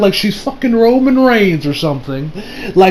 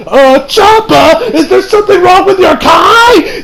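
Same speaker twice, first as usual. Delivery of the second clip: higher, slow puzzled voice; concerned Beerus; 11 semitones higher, 4 dB louder, slower than usual. Retold or imitated. Beerus asking Champa about his Kai, high and slow. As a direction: ask as if truly worried about him. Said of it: "Beerus is like".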